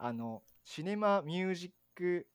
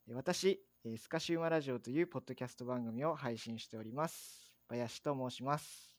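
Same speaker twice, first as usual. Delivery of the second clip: measured, scripted show introduction; formal host introduction, evenly delivered; podcast intro read. Acted. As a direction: read out the programme's opening announcement. Reads scripted programme introduction.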